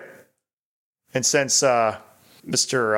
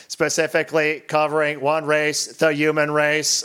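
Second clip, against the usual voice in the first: robot voice. Acted. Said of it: "to be read in an eighties robot voice".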